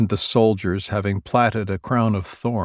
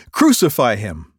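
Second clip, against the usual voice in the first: louder shouted demand; loud mob cry; crowd shouting; 3 semitones higher, 7 dB louder than usual. Acted. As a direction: finish the mob's cry. Crowd crying out.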